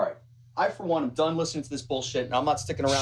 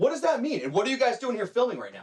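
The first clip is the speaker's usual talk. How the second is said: yelling, much higher; 9 semitones higher than usual. Arguing with friends over who disabled their car, yelling. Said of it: "Why are we yelling?".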